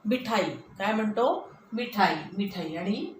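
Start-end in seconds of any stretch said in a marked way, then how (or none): 0.1-0.4 मिठाई said quickly with short first i; मिठाई, the mi kept short; quick short vowel. Shown as a demonstration. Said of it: "कसा बोलतो शब्द पटकन". 1.7-2.8 मिठाई repeated quickly with short mi; मिठाई, quick and unstretched; quick short vowel. Shown as a demonstration. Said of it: "आपण कसा बोलतो शब्द पटकन".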